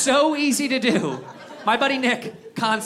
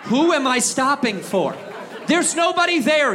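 raised, exasperated cry; exasperated shout; 4 semitones higher than usual. Real, not acted. Comic venting to the audience, exasperated shout. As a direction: yell it at the empty crossing. Ranting at empty stop sign.

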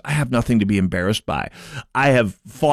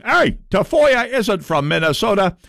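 Matt Little impression; 8 semitones higher than usual. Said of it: "That's a very good Matt Little impression".

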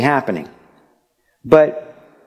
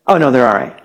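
casually dismissive reassurance, falling at the end; unbothered parent; faster than usual. Acted. Parent to a worried guest after hearing cries, casual dismissal. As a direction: brush off the worry like a parent. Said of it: "but the parent's going".

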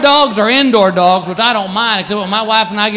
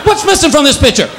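indignant cat voice; 5 semitones higher than usual. Retold or imitated. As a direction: play the wounded cat, dragging it out. Neutered cat complaining.

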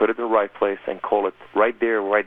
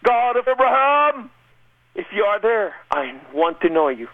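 crying out loud; 10 semitones higher than usual. Retold or imitated. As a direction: call out to the heavens, desperate. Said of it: "I cried out loud".

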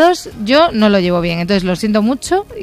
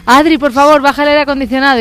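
lightly acted plea, raised pitch; voiced household plea; 5 semitones higher than usual. Partner at home asking about air conditioning, lightly acted plea. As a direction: plead as in a well-worn home squabble. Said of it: "la eterna conversación en mi casa de".

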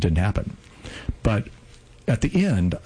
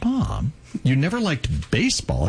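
surprised; 5 semitones higher than usual. Retold or imitated. Son stunned by mother's confession.

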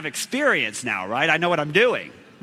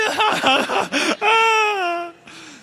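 high shrieking laugh; laughing cry; 12 semitones higher, 4 dB louder than usual. Retold or imitated. Laughing shout after the punchline.

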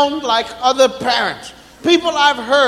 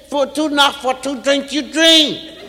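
lightly voiced small child; a hint of a mumbling toddler. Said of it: "you said".

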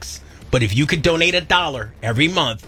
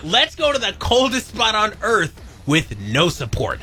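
laughing mock explorer; 6 semitones higher than usual. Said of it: "You were like".

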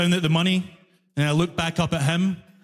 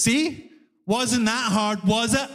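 condescending; 4 semitones higher, slower than usual. Retold or imitated. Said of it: "And then he goes".

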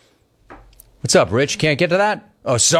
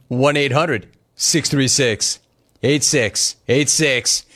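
announcer number read; slower than usual. Acted. Reads the phone number slowly.

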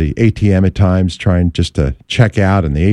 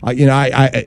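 nervous stammer; 3 semitones lower than usual. Retold or imitated. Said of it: "I start to stammer".

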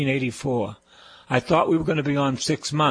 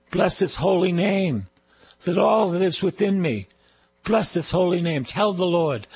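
raised, ringing call-and-response praise; preaching praise, higher and ringing; fervent praise; 5 semitones higher than usual. Acted. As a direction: lift the room in worship, pitch up. Leads congregation in fervent praise.

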